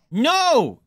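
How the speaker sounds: high laughing shriek; shriek, then laugh it off; startled laughing yelp. Real, not acted. Jump scare in horror game.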